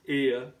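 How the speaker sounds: "ear" as a gliding diphthong, R dropped; silent R. Shown as a demonstration. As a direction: say "ear" British-style, ending in a schwa. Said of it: "this r sound is not pronounced".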